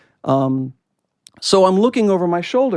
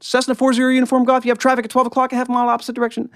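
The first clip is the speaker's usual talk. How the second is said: higher, crisp radio advisory; controller traffic call; 8 semitones higher, faster than usual. Retold or imitated. Controller alerting the pilot to oncoming traffic, brisk radio voice. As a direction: read it out like a tower warning over the frequency. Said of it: "the controller said".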